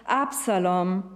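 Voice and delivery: a touch of a father's lament, lightly voiced; mournful repeated calls for his son, held back; grieving cry. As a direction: read the cries with mild, understated grief. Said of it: "rief er immer wieder".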